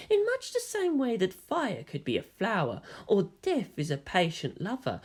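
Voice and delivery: softly voiced, aloof dream figure; lightly voiced mysterious stranger, soft and knowing; a hint of an eerie visitor. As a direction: speak down to her, calm and cryptic. Visitor speaks in metaphors.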